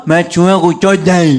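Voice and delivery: slow, loud, slurred mumble as if in shock; a dazed kid mumbling the words after a fright; mumbled slurred confession. Retold or imitated. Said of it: "वो ऐसे नहीं बोला".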